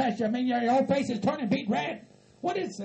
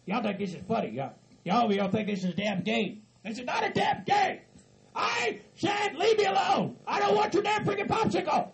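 shouting, higher-pitched angry redneck; furious hillbilly rant; 3 semitones higher than usual. Acted. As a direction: yell threats at the pranksters.

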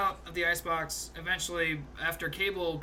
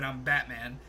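gruff Batman voice; 4 semitones lower, slower than usual. Retold or imitated. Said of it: "in that gruff voice".

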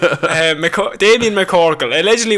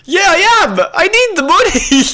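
higher pitched robber's pleading reply; acting robber; 10 semitones higher than usual. Robber insisting to the cashier, higher pitched.

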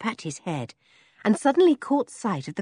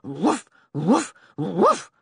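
dog barking; much slower than usual. Acted. Dog barking in the girl's ear to wake her, lightly voiced woof. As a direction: bark gently into a sleeper's ear. Timmy barks at Henry.

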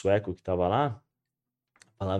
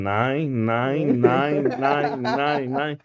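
lightly voiced teacher repeating nine, louder; teacher saying nein; 3 semitones higher, 6 dB louder, much slower than usual. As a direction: tick off every error with a nine. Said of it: "Ele pegou a caneta vermelha e falou". (imitando o professor corrigindo, repetindo nine)

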